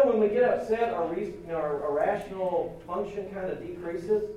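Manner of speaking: ordinary talk, nothing marked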